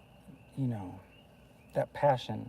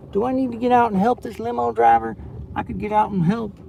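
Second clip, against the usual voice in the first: excited; 8 semitones higher, 9 dB louder, faster than usual. Real, not acted. Limo blocking road while driving.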